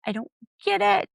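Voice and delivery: squeaky, put-on high voice, bewildered; high mock voice. Podcaster quoting a reality star in a squeaky mock voice.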